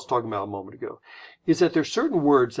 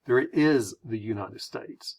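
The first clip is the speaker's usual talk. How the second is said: IS held and leaned on; slight stretch on the word is; stress on IS; 3 semitones lower than usual. Shown as a demonstration. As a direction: put the weight on "is". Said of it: "or do we say".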